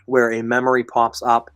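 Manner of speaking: losing voice, a bit hoarse; strained hoarse throat. Real, not acted. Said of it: "sorry guys, I'm losing my voice".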